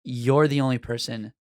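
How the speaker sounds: low, measured deadpan with a hidden smile; evil smile. Retold or imitated. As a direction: deliver it low and pointed, as polite menace. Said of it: "I do it with a s-, evil smile".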